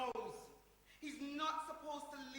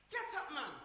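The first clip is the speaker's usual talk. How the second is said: sharp order; 3 semitones higher, 5 dB louder than usual. Acted. Ordering him to get up.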